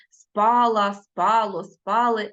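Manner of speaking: спала, спало, спали stressed on СПА; stress on root. Shown as a demonstration. Teacher shows pupils root stress, stressing СПА in спала, спало, спали. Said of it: "наголос падає на корінь".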